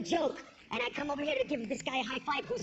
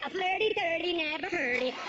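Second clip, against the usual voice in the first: mock Swedish. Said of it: "went to Sweden".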